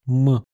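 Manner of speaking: dark, velarized M. Shown as a demonstration. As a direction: hum M with the tongue pulled up at the back. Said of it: "un M vélarisé".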